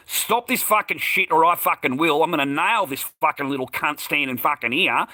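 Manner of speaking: heated, profane dare; retold loud confrontation. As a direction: reenact squaring up to someone. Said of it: "I said it out loud".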